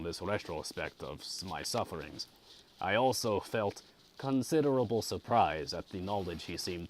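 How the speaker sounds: measured audiobook reading; story narration. A narrator's reading. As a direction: read a classic novel aloud with care. Reads the novel aloud.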